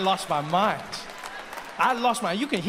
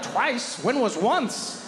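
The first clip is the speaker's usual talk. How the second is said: much higher, gushing fake delight; fake-surprised woman; 6 semitones higher than usual. Woman pretending to know the stranger, in a gushing high voice. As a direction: overact the joy of seeing an old friend.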